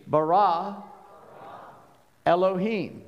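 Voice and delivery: bara and Elohim sounded out slowly with pauses; each word, bara, Elohim, carefully enunciated alone; over enunciating. Shown as a demonstration. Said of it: "I'm gonna do it one, one word at a time".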